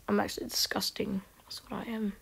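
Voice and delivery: breathy self-mocking whisper; whispered aside. Real, not acted. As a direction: whisper it to yourself like a confession.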